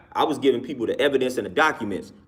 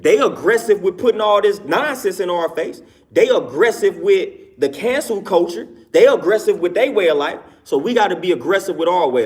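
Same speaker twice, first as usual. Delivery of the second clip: loud; 5 semitones higher, 4 dB louder than usual. Real, not acted. Rising rant about aggression.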